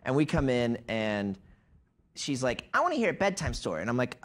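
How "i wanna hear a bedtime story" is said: lightly voiced kid, higher and quick; quick higher little-kid request; a hint of a kid asking; child in the scene.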